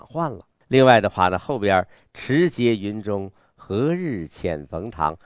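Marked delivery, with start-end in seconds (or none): 2.1-5.2 slow, drawn-out verse reading; slightly inward recitation. Shown as a demonstration. Teacher showing a student the later line, inward recitation. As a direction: recite slowly, holding the ambition inside. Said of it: "稍微内在一点儿".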